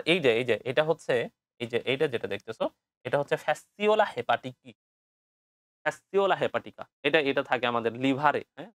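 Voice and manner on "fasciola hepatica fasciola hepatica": slow. Shown as a demonstration. Teacher spelling out a hard name.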